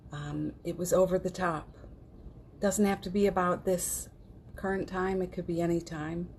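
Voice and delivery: ordinary delivery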